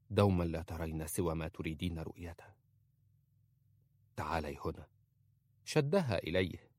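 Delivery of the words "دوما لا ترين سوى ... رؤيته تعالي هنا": tender. A narrator's reading. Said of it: "احتضنها".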